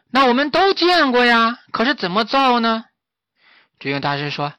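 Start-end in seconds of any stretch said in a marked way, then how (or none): 0.1-2.9 high, loud monkey chatter; excited monkeys pressing the master; high eager monkey voices. A narrator's reading.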